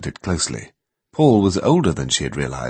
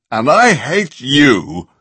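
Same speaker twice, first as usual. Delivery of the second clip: bawling; 6 semitones higher, 6 dB louder, much slower than usual. A narrator's reading. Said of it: "he bawled".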